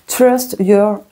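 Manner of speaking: slow, careful English accent from a French speaker; a French reader trying hard at an English accent; slow English accent attempt by a French card reader. Shown as a demonstration. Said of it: "La meuf qui essaye de faire l'accent anglais".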